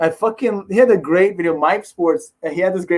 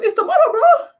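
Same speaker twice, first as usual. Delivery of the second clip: extremely high, laughing falsetto imitation; Yoel Romero; 4 dB louder than usual. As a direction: squeal it in a mock fighter falsetto. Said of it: "He goes, like, his all high voice".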